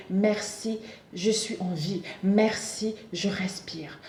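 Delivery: soft, measured prayer of thanks; quiet morning gratitude, ending near a whisper; morning thanksgiving. Shown as a demonstration. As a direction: give thanks gently, each phrase fading off. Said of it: "vous vous réveillez le matin".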